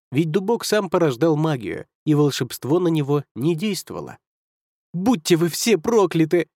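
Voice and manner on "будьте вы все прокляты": roaring curse. Acted. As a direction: scream the curse in fury. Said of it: "заорал Коми".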